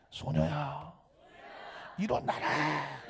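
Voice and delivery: drawn-out calling command; 외치듯 길게. Shown as a demonstration. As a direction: call it out, stretching the last word slowly. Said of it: "소리 질러야 되잖아요". (길게 늘여 외치듯)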